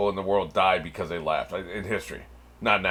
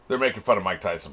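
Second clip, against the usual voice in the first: ordinary talk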